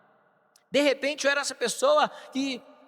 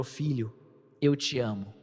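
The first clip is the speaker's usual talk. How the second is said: tender father; 10 semitones lower than usual. Retold or imitated. Father hugging his son off the bus, low and tender. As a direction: say it gently, like a father finally saying it.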